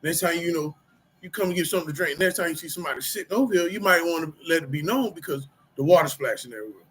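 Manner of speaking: the changed man answering calmly; calm, restrained reply. Retold or imitated. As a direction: stay cool and explain gently. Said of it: "I did say it like that".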